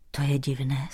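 soft, low-key murmur; whispered. A narrator's reading. Visitor to the grieving king, whispered. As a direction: say it under your breath, puzzled. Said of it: "zašeptal návštěvník".

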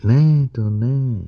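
high-pitched, eager-to-help robot; earnest robot. Acted. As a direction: plead insistently in a high robot voice. Narrator voices Herbie the robot.

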